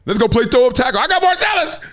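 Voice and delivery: high excited calling out; excited kid. Retold or imitated. Himself as a kid picking teams, excited calling out. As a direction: call dibs high like a kid.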